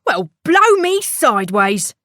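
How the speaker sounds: the tinker taken aback; startled tinker. Acted. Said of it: "said the tinker".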